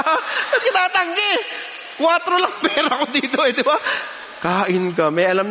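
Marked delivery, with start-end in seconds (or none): 0.0-3.8 amused disbelief. Real, not acted. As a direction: stretch it out through a laugh, incredulous. Amused disbelief at refusing food.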